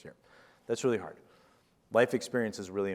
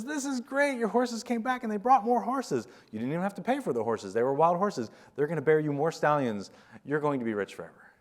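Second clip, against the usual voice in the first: very high, loud gushing crowd voice; much higher and louder, overjoyed villagers; thrilled townsfolk; 9 semitones higher, 5 dB louder than usual. Retold or imitated. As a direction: cheer him on like giddy neighbours. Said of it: "everybody says".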